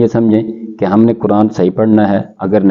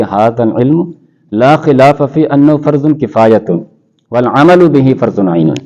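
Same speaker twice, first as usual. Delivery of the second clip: Arabic quote recited; 3 semitones higher, slower than usual. Retold or imitated. Scholar quoting Arabic ruling slowly.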